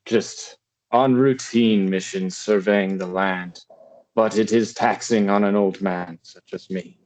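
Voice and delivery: measured old lord, attempted British accent; lightly voiced ageing knight, British; British-accented old father. Old father tells Cassie of his missions, lightly played British accent.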